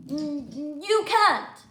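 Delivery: loud, high "you can't"; bossy refusal. Acted. George refusing Freddie, loud and high. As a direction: snap him down.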